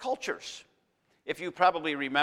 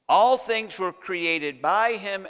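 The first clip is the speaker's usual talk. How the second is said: slow and louder, every word weighted; emphasized phrase; 3 semitones higher, 6 dB louder, slower than usual. Shown as a demonstration. Preacher telling the congregation which phrase to underline, slow and weighty. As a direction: lean on each word so they underline it. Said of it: "Underline this phrase".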